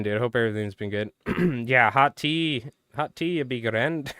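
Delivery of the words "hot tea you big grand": mock Irish accent. Streamer teasing a viewer as an Irish mother, mock Irish accent. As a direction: put on a joking, stereotypical Irish accent. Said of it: "listening to her Irish accent".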